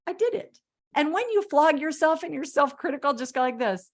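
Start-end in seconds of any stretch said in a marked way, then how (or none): 0.0-0.6 high, proud little cheer; mock-triumphant I did it; glad cheer. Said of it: "be really glad and be like".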